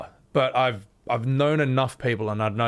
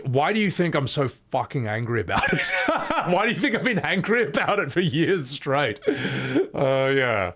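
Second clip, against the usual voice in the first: laughing; 2 semitones higher than usual. Real, not acted. Laughs about own anger.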